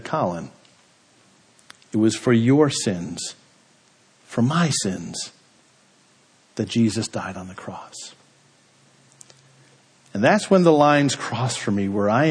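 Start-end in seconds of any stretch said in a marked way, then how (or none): 0.0-8.1 soft, low retelling of a mother's gentle correction; mom's simple wisdom. Retold or imitated. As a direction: say it simply and quietly, falling away. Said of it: "My mom, in all her wisdom, turned and simply said".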